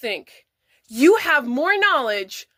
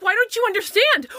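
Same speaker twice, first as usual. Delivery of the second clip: mocking quote; 5 semitones higher than usual. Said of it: "they're like".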